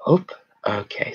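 ordinary talk, nothing marked

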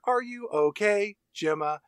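slow, measured doll voice; even-keeled robot. Retold or imitated. Robot doll checking on her maker, imitated even keel. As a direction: imitate a robot's level, careful concern. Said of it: "Her tone goes real even keeled".

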